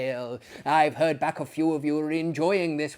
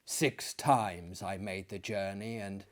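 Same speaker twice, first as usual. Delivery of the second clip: measured dramatic reading voice; steady storyteller's read; story narration; 3 semitones lower than usual. A narrator's reading. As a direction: read it like a dark gothic tale.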